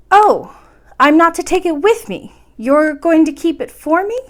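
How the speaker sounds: hope grandmother keeps it safe; surprised question. A narrator's reading. Princess to grandmother, high loud surprise.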